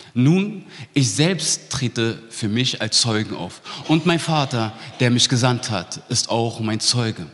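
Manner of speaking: measured, solemn Bible reading; scripture reading. Acted. Preacher reads John eight to the congregation, solemn reading. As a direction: read the passage with gravity.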